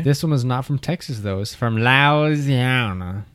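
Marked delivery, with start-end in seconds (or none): 1.4-3.2 slow, thick words round peanut butter; mouth full of peanut butter. Real, not acted. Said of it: "like he's got peanut butter in his mouth".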